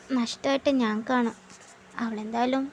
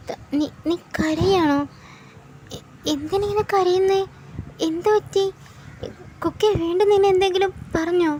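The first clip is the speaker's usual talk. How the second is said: worried mother; 4 semitones higher than usual. Acted. Mother finds daughter crying.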